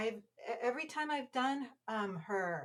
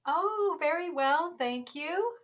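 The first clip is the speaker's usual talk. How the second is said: breathy Marilyn voice; 6 semitones higher, 8 dB louder, slower than usual. Acted. Breathy Marilyn greeting on the podcast.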